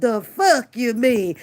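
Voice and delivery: ordinary talk, nothing marked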